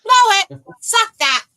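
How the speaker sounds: shouting. Real, not acted. Jeering shout at a friend.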